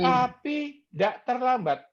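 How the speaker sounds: drawn out slowly, each word weighed; slow it down to land the point; slow emphatic. Shown as a demonstration. Preacher stressing God is never late, slowly. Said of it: "Saya ulangi lagi".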